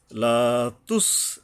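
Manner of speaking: "লা তুস" recited slowly with a clear hissed s; careful seen. Shown as a demonstration. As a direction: hold "লা" long, then finish "তুস" on a careful s. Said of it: "সিন উচ্চারণে সাবধান হতে হবে".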